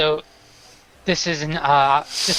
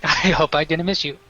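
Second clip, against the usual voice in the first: put-on drunk; 5 semitones higher than usual. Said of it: "he's slurring his words".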